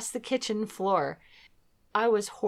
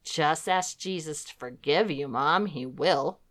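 put-on pragmatic child; 4 semitones lower than usual. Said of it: "very pragmatically said".

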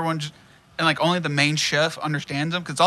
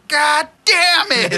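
slow laughing curse; cracking up while cursing; 11 semitones higher, 3 dB louder, much slower than usual. Retold or imitated. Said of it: "And Shake goes".

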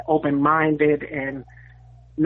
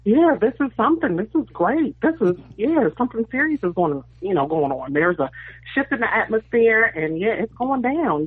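thrilled gushing; 5 semitones higher than usual. Retold or imitated. Caller reliving Rod following her on Twitter, excited. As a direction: gush like something huge is happening.

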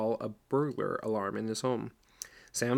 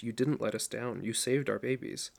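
slightly scolding. Acted. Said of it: "in a slightly scolding voice".

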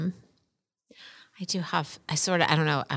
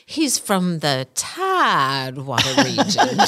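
put-on Southern accent; slower than usual. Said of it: "she had this funny accent".

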